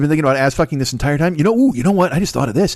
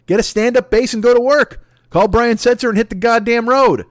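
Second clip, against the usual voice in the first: ranting; 9 semitones higher, 3 dB louder than usual. Real, not acted. Ranting at Ellen.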